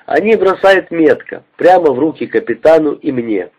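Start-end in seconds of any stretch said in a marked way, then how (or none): none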